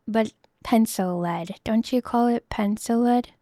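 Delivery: normal talking voice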